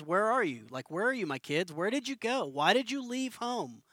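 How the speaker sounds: gentle, pleading call from a loving father, rising at the end; calling lost kids home, tender not angry; loving father's voice. Retold or imitated. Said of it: "but in a loving father's voice".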